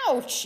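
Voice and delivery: sudden pained yip; yipped in pain. A narrator's reading. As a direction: yelp it like a hurt coyote. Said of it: "yipped Coyote".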